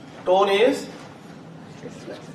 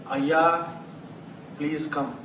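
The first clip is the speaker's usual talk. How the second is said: respectful; 3 semitones lower, 5 dB quieter, much slower than usual. Shown as a demonstration. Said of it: "Respect, politeness".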